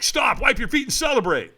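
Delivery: lightly acted urgent instruction; mild mock shout. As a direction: call out orders like a catcher at the finish. Catchers order him to stop.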